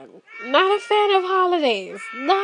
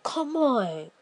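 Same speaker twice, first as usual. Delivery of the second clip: coaxing hush; 6 dB quieter than usual. Retold or imitated. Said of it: "And they like".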